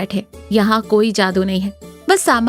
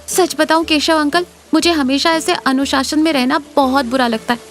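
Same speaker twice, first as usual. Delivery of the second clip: put-on higher-pitched, girlish outpouring; young schoolteacher confessing; 4 semitones higher than usual. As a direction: pour out a secret wish to an uncle.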